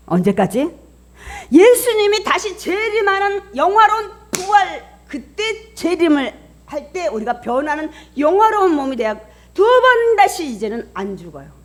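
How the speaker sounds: loud, high pulpit proclamation; preaching at full force. Real, not acted. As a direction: declare the promise to the whole congregation. (힘차게 외치는 설교)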